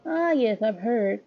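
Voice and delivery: a hint of a proper little gentleman; polite boy voice.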